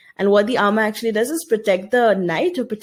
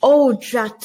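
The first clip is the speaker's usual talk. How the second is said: loud, irritated "Oh, drat" with a falling snap; a grumpy old sailor cursing his miss; angry gunner; 2 semitones higher, 5 dB louder than usual. Acted. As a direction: spit out "Oh, drat" in annoyance. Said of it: "said the old gunner in his anger".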